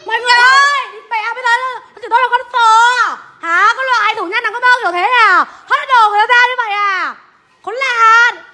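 indignant outcry. Real, not acted. Woman tells everyone she was insulted, indignant outcry. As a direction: cry out the grievance for all to hear. Appeals to bystanders over an insult.

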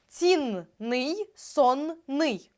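цінний і сонний поділені на частини з чітким подвоєним «н»; розділяй «цінний», «сонний» паузою між двома «н»; вимова по складах. Shown as a demonstration. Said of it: "нам треба додати суфікс". (цін-ний, сон-ний: вимова по складах)

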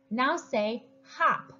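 slow phonics prompt to second graders; slow, clear teacher prompt. Shown as a demonstration. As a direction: say hop slowly and clearly. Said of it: "say another word".

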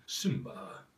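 a hint of a deep lion king; Mufasa voice. Shown as a demonstration. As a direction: speak like a grave royal father. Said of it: "the voice of Mufasa".

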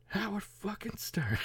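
high, slow bitter mock voice; Kenny impression. Vlogger repeating Kenny's line, high slow bitter mock. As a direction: drag it out like the bitter character.

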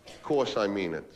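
slow, low and understated; reassuring. Acted. Man answering girlfriend who doubts the love, low reassurance. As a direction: reassure gently, drawing the words out.

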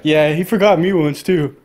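mocking stoner coworker impression; lightly voiced slacker with chuckles breaking in; imitated background guy. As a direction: imitate a pot-smoking coworker chiming in. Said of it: "That's what he sounded like in the back".

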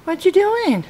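high, lilting pet-talk voice; doggy talk. Real, not acted. Owner greets Shelby the dog, doggy talk. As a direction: coo a playful question to your dog.

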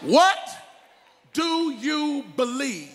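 loud high WHAT, then slow; shouted challenge. Real, not acted. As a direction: demand it of the crowd. Preacher's climax question.

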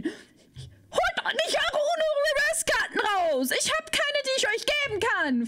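high, slow whining plea; whiny protest. Acted. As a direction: whine like a wronged child. (hohes, gedehntes Jammern)

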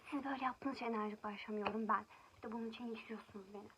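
loud, heated rant at the viewers; angry outburst. Real, not acted. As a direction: let the anger out loud at the commenters. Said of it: "çok sinirlenince böyle oluyor".

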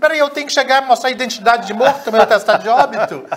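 fast, high, loud sarcasm; acted indignant comeback. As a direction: retort as if the demand is absurd. Spirit's indignant comic comeback.

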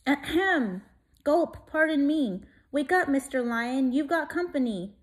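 a little mouse working up courage; timid mouse. Acted. Mouse voice addressing lion.

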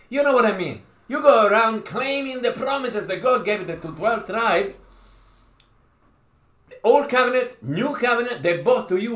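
high, loud preaching push; fiery preaching. Real, not acted. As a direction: drive the point home to the congregation. Preaching climax.

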